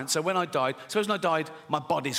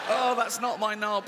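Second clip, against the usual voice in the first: higher-pitched startled exclamation; acted dismay; 5 semitones higher than usual. Man looking down at his transplanted body, mock dismay.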